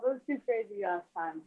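distant, faint phone voice; phone held away. Real, not acted. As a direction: caller far from the phone. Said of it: "Are you on speakerphone or something?".

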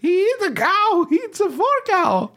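very high put-on French accent. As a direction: play a silly French parent. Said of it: "Is that your French accent".

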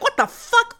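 shocked at a three-week cookie recipe, squeaky mock outrage; indignant disbelief. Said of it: "and I'm like".

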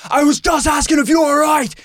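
high-pitched retold yelling; acted-out aggrieved shout; imitating indignant bystander. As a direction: protest loudly as the offended helper. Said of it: "while the other guy is going".

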